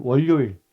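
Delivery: "월요일" said Busan-style as 월료일; "월요일" with an added L sound, 월료일; Busan pronunciation. Shown as a demonstration. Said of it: "부산 사람은 월요일 이러거든요".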